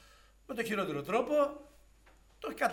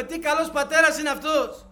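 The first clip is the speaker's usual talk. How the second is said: much higher and louder, crying out in joy; ecstatic praise; 8 semitones higher, 13 dB louder than usual. Real, not acted. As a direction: proclaim God's goodness with fervour. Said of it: "preaching exclamation at full force". (ενθουσιασμένη δοξολογία)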